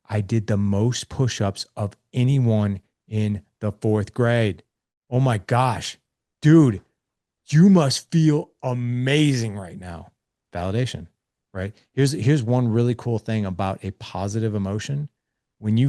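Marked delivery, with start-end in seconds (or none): 0.1-10.1 put-on excited kid boasting. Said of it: "He's like".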